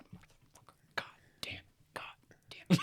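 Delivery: imitating dad's seething under-the-breath swearing; whispered cursing. Dad refusing to speak to his son, whispered cursing. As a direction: whisper each curse separately, almost voiceless.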